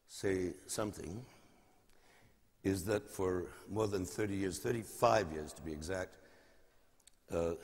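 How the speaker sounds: normal talking voice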